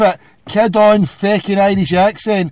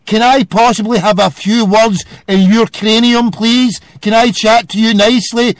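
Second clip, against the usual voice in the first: hammed-up polite caller; mock politeness; 4 dB louder than usual. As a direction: plead with sarcastic formality. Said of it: "you address me properly".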